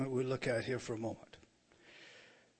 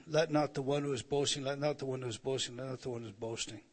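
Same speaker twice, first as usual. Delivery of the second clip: speeding up and fading with each repeat; recited refrain, tailing away fast; faster than usual. Shown as a demonstration. Repeats clause to show parallelism.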